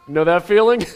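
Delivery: usual speaking voice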